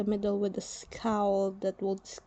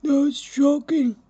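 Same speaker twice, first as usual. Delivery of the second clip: whined shock; 6 semitones higher, 8 dB louder than usual. Acted. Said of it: "Antef whined".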